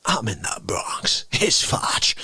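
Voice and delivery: understated, murmured phone message; caller on the phone. Acted. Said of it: "you get a call".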